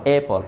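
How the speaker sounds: অ্যাপল with a barely sounded final l; soft released ending. Shown as a demonstration. Teacher repeats the word for class, soft released অ্যাপল. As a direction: let the last sound of অ্যাপল go. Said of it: "ছেড়ে দিতে হয়".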